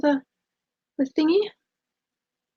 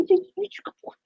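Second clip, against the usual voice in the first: sing-song, higher and softer, stress on He's; higher dog talk; 7 semitones higher, 5 dB quieter than usual. Real, not acted. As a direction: coo it up high to the dog. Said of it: "I don't talk like that to my dog".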